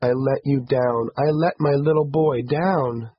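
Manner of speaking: high, mildly tearful self-reproach; soft sobbing. A narrator's reading. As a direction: lament gently, close to tears. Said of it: "she sobbed softly".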